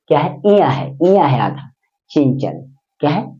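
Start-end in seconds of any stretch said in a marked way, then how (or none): 2.1-2.6 चंचल with the dot said as a nasal n; falling, softer चंचल with a nasal half n; nasalised pronunciation. Shown as a demonstration. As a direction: say चंचल with a nose-made half n after the first च. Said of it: "नाक से बोलिए".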